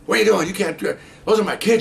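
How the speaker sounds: imitated frantic mother; protesting mother. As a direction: plead and protest at once.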